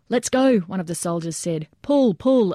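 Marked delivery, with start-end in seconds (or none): 0.1-0.6 higher-pitched urging; urgent command. A narrator's reading. Soldier hurrying the men carrying the wounded, urgent call. 1.8-2.5 higher-pitched, urgent repeated command; urging. A narrator's reading. Soldier urging men dragging a casualty, urgent raised call. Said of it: "another urged".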